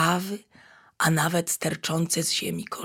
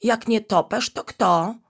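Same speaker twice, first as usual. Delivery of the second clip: frowning puzzlement; 3 semitones higher, 6 dB louder than usual. Acted. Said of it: "zmarszczył brwi niedźwiadek".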